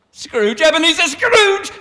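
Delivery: booming ghost calling the name; ghostly call. Acted. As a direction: summon him from the grave, loud and high. Ghost calls Scrooge's name.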